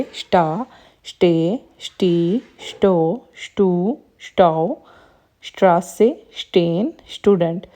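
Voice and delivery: sh at the start of स्टेन and स्टूडेंट, spaced like a drill; "st" as sht. Shown as a demonstration. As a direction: drill स्टा, स्टे, स्टी as "shta, shte, shtee", one by one. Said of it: "वो शीन की sound देता है". (स्टा, स्टे, स्टी में शीन की साउंड)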